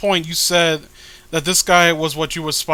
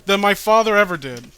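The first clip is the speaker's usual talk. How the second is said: character voice; 2 semitones higher, 4 dB louder than usual. Acted. Reading a character's comic dialogue.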